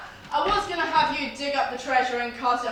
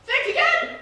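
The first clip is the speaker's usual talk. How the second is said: defiant shout; 12 semitones higher than usual. Acted. Pirate captain threatening his prisoner.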